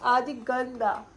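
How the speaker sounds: put-on drawn-out playful telling-off of a toddler; mock scolding. Mother tells son everyone calls him naughty, mock scolding. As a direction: shame a little child in pretend disapproval.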